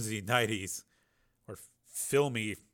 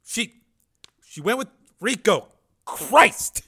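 high, loud, gasping pain; wounded man in pain; 10 semitones higher, 11 dB louder, slower than usual. Acted. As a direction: cry out through the agony.

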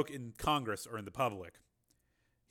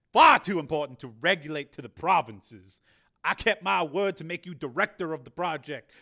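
much higher, louder Carmen voice; smooth excuse; 6 semitones higher, 12 dB louder than usual. A narrator's reading. Carmen excusing his broken deal, smooth. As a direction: brush it off politely.

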